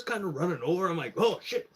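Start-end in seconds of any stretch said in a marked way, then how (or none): 1.2-1.7 high-pitched mock "oh shit"; sudden higher exclamation of dismay; retold alarm. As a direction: re-enact being caught spying. Retold alarm at being seen.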